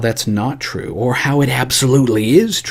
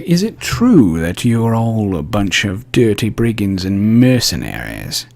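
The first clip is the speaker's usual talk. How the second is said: blunt accusing question; 3 dB louder than usual. Retold or imitated. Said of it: "go up to the new dignitary and say".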